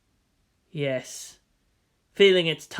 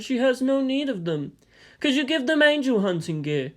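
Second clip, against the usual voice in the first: higher, courteous Yang; polite apology; 5 semitones higher than usual. Acted. Yang politely requests something from the Colonel. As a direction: apologize with deference, then ask.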